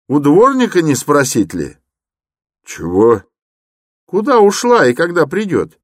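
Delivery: high, eager suggestion; young man's voice. Acted. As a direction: press the idea forward. Young man suggests asking.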